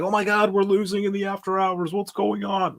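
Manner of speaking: mock panic. Panicked trader watching after-hours loss.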